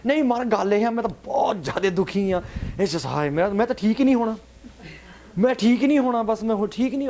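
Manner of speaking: high, insistent mock wailing; mock lament. Worshipper talking over the Guru with troubles, mock lament. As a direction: plead over the top, too upset to listen. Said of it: "we're not listening".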